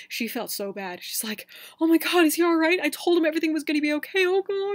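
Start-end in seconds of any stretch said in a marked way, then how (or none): 1.8-4.7 higher, louder, fast mock panic; panicking girlfriend. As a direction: rush it out in a frantic flap. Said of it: "totally freaking out".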